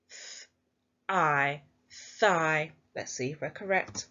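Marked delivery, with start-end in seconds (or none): 0.1-1.6 each sound said apart with a pause between. Shown as a demonstration. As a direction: segment "Th-" and "I" one by one. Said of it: "let's pinch our sounds".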